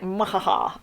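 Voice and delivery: spoken mock evil "mwahaha"; mock villain laugh. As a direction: imitate a plotting villain's cackle, half-hearted. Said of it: "he's just like".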